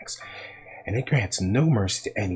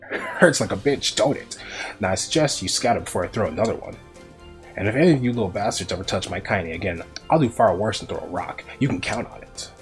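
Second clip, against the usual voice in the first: put-on louder, rough old woman's threat; voice thick with rage; 4 dB louder than usual. A narrator's reading. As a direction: warn off the bullies with cold fury. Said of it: "in a voice thick with rage".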